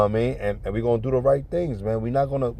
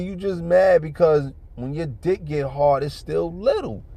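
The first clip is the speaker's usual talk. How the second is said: slow, higher imitation of her cool insult; calm put-down; 6 semitones higher, slower than usual. Woman telling her man off without anger, calm. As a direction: take your time, no anger in it. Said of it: "she said it calm".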